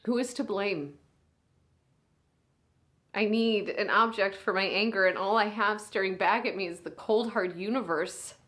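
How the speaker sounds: a big sister at a hospital bedside, swinging between hushed and raw; hushed, aching bedside monologue; grieving big sister. Acted. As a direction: speak to your unconscious little sister, holding back tears. Sister talks to comatose sibling.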